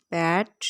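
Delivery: पैट set apart on its own; isolated syllable. Shown as a demonstration. Teacher points out the first syllable, पैट said in isolation. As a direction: say पैट as one separate, complete beat. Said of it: "ये देखें, ये है".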